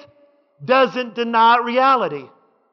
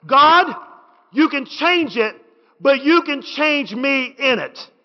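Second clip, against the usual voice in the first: God punched, rest slower; slower repeat; slower than usual. Real, not acted. Preacher repeats the prayer line so the church hears it. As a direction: say it again, leaning in. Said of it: "Can I say that again?".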